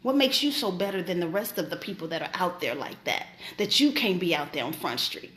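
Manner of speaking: low, understated rebuke in God's voice; God questioning her. Retold or imitated. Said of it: "And he asked me".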